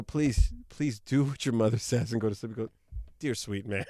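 a hint of Bill Cosby's tired father; Bill Cosby bit. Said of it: "Bill Cosby as himself do that bit".

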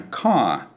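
car as a long open cah; long British vowel. Shown as a demonstration. Teacher demonstrating the vowel before R, long British vowel. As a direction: stretch the vowel in car and drop the R. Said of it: "expanding the sound of the vowel before the letter R".

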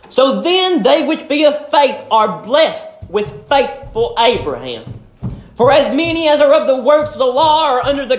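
measured King James reading to the congregation; scripture reading. Acted. Preacher reading scripture to the church, measured and solemn.

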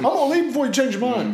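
high, quick excited ad read; fast cheerful commercial character. Retold or imitated. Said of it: "The marketing to Burger King is getting to me".

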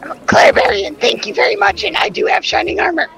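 high mock-offended correction; high indignant character voice. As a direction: pitch way up, prim correction.

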